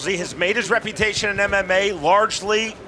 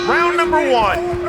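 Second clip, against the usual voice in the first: booming fighting game announcer; 8 semitones higher, slower than usual. Acted. Commentator opens round.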